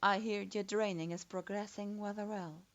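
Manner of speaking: a lightly voiced man, stating it offhandedly; casual male voice. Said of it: "he stated casually".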